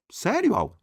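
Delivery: high-pitched mock-student question; imitated student squeak of disbelief; incredulous pupil. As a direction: ask it high like a doubting pupil. Voices a pupil's doubting question.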